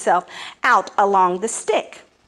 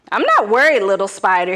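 lofty, louder dismissal; haughty declaration; 5 dB louder, faster than usual. Acted. Sky god dismissing Anansi, haughty and loud. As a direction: talk down to the spider. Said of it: "he declared".

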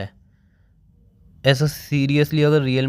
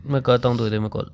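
crying on the phone; 5 semitones lower, 3 dB quieter, faster than usual. Real, not acted. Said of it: "पहले रोना बंद करो।".

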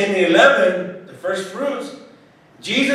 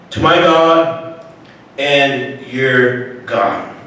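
solemn scripture reading; 2 semitones lower than usual. Acted. Scripture read aloud in sermon.

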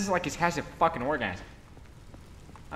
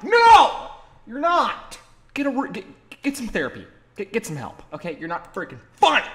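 mock-outraged scolding, pitched up; acted indignant retort; 8 semitones higher, 7 dB louder than usual. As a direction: burst out high on the no, then ease slightly. Acted retort to unfunny people.

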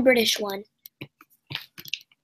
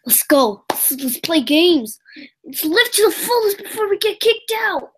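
raised, rallying mock cry; acted urgency; 4 semitones higher than usual. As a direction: act out everyone's last-chance rush, climbing higher. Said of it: "this is what everyone did".

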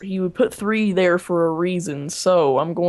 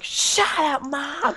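mock rude yell; 8 semitones higher, much slower than usual. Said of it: "She's like".

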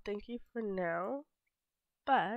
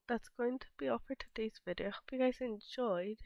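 congested, stuffy sick voice. Real, not acted. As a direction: talk with a cold. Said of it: "with my sick voice".

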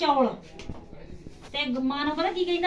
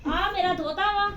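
laughing; 3 semitones higher, 6 dB louder, slower than usual. Real, not acted. Introducing grandson, laughing loudly.

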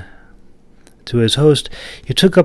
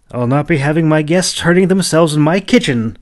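put-on higher fussy old woman scolding her guest; fussing; 7 semitones higher, 4 dB louder than usual. A narrator's reading. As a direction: fuss over him like a busybody granny. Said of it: "she fussed".

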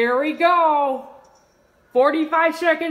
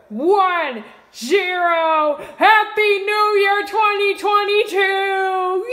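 counting down, building to a cheer; new year countdown crowd. Real, not acted. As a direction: count down, then shout the greeting.

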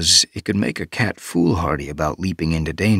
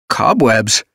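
surprised; 5 semitones higher, 5 dB louder than usual. A narrator's reading. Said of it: "quivered with surprise".

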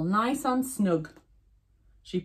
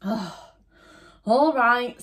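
higher, louder tiger voice; a light growly tiger; 6 semitones higher, 4 dB louder than usual. Acted. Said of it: "said the tiger".

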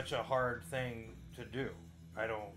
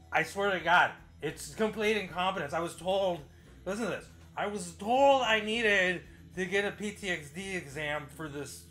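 louder, higher, frustrated complaint; exasperated venting; 6 semitones higher, 7 dB louder than usual. Real, not acted. Vlogger venting to viewers about the VA, exasperated. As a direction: vent it with rising exasperation.

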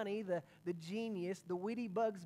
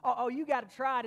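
playing along excitedly; 4 semitones higher, 5 dB louder than usual. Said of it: "he's like".

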